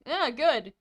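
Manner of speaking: talking through a mouthful; words round a bite of food; mouth full. Acted. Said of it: "With a full mouth".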